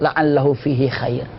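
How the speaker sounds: low, slow, gentle delivery; calmly reassure, as if with a smile; smiling reassurance. Retold or imitated. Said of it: "dia senyum dengan mengatakan".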